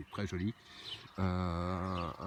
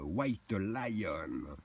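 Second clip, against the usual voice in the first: English accent. Shown as a demonstration. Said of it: "Shakespeare, elle doit être content de mon accent".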